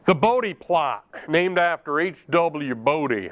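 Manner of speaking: slow, slightly hammed-up cowboy accent; put-on Texan-style drawl. Teacher introducing the Bodie plot, playful cowboy accent. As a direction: lightly put on a big-hat Southern drawl. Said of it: "I don't know why I gotta use an accent".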